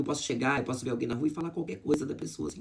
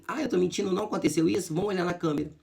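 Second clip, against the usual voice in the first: defiant challenge; 7 semitones higher, faster than usual. Retold or imitated. Challenging the accuser in retold quarrel.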